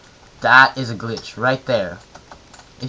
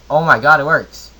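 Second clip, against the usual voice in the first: excited; 3 semitones higher, 8 dB louder than usual. Real, not acted. Crafting test unexpectedly succeeds.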